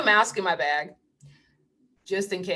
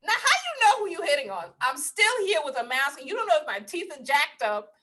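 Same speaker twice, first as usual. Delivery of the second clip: higher, quick teasing scold; higher playful callout; sassy scolding; 5 semitones higher than usual. Retold or imitated. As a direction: call him out, sassy. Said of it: "I was like".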